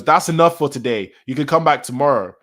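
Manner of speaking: lightly acted firm call to end the visit; imitated warden's order.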